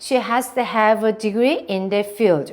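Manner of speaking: degree and field stressed in one smooth run; stressed, run together. Shown as a demonstration. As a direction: flow through it, hitting degree and field. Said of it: "강세 넣으시고 in the field 강세 넣으시고 쫙 가보도록".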